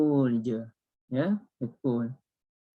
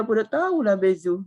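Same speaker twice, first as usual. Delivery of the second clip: imitating a Kelantanese junior, pitched up; higher-voiced Kelantan dialect impression; Kelantanese accent; 7 semitones higher, 4 dB louder than usual. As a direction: quote him in Kelantanese, raised pitch. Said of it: "Ya, dia orang Kelantan lah".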